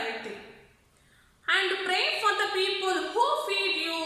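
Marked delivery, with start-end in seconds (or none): 1.6-4.0 gruff voice. Shown as a demonstration. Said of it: "in gruff voice".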